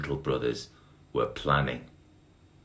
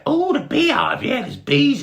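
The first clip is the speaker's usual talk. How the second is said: very high, loud squeaky beetle voice; high squeaky Bart; 10 dB louder than usual. Acted. Dim little brother greeting Barry, high squeaky voice.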